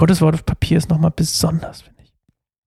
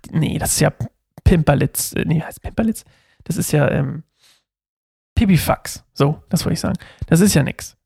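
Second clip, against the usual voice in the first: hesitant brush-off. Retold or imitated. Believer talks himself out of praying for trifles, hesitant and dismissive. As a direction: shrug it off under your breath, with pauses. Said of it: "zurückschrecken und sagen würden so".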